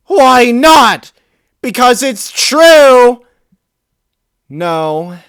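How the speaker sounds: high, loud shouting retort; an enraged teen mare yelling; furious yell. Acted. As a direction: hurl it back at him. Melody screaming back.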